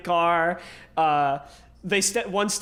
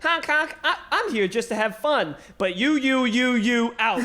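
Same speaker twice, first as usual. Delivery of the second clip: silly clown; 4 semitones higher than usual. Retold or imitated. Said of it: "he's like".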